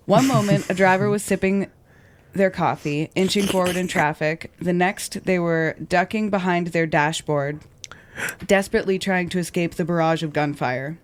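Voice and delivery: measured true-crime podcast read; narrating a crime story from a script; scripted story narration. A narrator's reading. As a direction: read the account clearly and deliberately.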